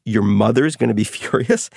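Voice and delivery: a laugh breaking into the question; can't hold back a laugh at the absurd excuse; laughing in disbelief. Retold or imitated. Author laughing at the manager's worry about his mother. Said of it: "So I started laughing".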